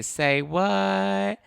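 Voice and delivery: high mock disbelief; say what. Real, not acted. Telling viewers the Broadway news, mock shocked. Reacting to news about a reality star.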